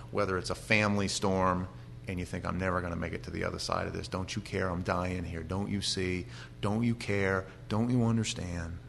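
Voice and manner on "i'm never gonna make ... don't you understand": despairing plea. Retold or imitated. Despairing prayer to God.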